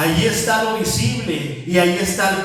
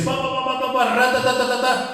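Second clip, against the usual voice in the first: mock tongues; 5 semitones higher than usual. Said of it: "Porque dice".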